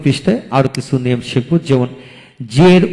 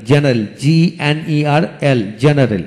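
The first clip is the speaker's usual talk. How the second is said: slow spelling demo; slower than usual. Shown as a demonstration. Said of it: "যেমন জেনারেল".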